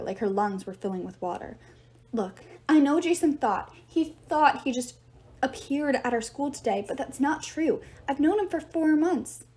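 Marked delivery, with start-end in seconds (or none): 2.1-9.4 panicky. Acted. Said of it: "Panic started building inside her".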